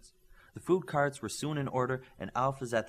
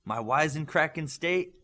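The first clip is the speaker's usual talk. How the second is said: fake German accent; 5 semitones higher, 5 dB louder than usual. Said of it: "said with a fake German accent".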